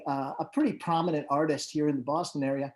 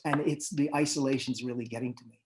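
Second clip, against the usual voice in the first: retold tearing up; 2 semitones lower than usual. Road manager confiding how he misses his crew, retold subdued and mildly tearful. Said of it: "he was tearing up and he says".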